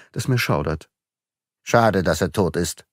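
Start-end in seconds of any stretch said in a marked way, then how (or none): 1.6-2.9 a touch of scorn; the magistrate mocks Beautrelet's admiration, a touch of scorn; mocking. A narrator's reading. Dry mockery. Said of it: "spottete Filleul".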